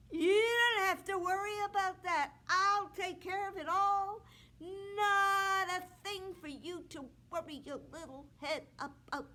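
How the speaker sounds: a vain prince brushing off her worry; smug suitor. Acted. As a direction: pat her on the head with your voice.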